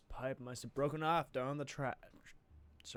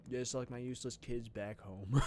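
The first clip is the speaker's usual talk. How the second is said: put-on southern accent. Character complaining about the kids, southern accent. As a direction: bellow it like a fed-up southern dad. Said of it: "I'm doing a lot of southern accents".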